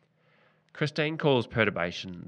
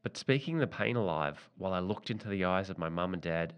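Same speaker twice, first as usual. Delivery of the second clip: softer, measured reading of a personal story; memoir reading; 4 dB quieter than usual. Acted. Author sharing a book excerpt about grief with listeners, softer memoir reading. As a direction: read your own painful memory with restraint.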